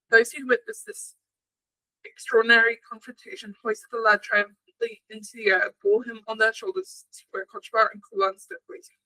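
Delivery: measured storybook reading; story narration. A narrator's reading. Narrator reading an old legend to podcast listeners, story narration. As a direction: read the legend aloud, steadily.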